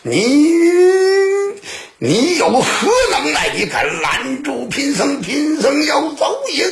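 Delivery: high-pitched, enraged outburst; furious monk. Acted. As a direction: roar defiance at the man blocking you, pitch riding high. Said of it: "惠民的和尚大怒说". (大怒高喊)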